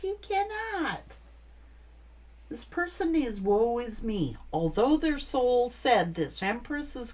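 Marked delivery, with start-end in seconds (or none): 0.0-1.2 high, soft and slow, each word weighed; firm emphasis. Real, not acted. Reader scolding the ex, slow high emphatic denial. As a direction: lay down the law slowly. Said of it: "You can't bring no page energy".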